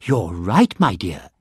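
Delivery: a hint of a gentle mama bear; lightly voiced soft bear mother; soft growly voice. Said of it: "she said in her soft, growly, middle-sized voice".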